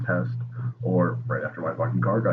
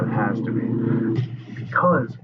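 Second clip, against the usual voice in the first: hushed awed whisper of fate; slow breathless whisper; 2 semitones higher, slower than usual. Acted. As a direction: whisper it slowly, almost to yourself. Insisting it was fate.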